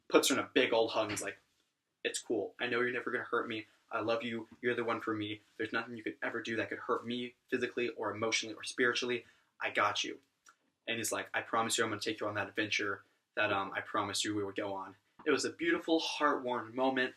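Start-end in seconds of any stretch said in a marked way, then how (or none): 2.0-10.2 a touch softer, lightly acted comfort; retold gentle reassurance. Bon hugs and reassures Elaine. 11.3-14.9 a touch softer, lightly acted comfort; retold gentle reassurance. Bon keeps comforting Elaine.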